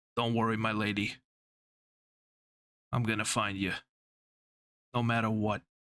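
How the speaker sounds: inward aside, said to himself. Voicing a character who speaks quietly over sleeping companions: very quiet, under his breath. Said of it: "Very quietly, almost under his breath".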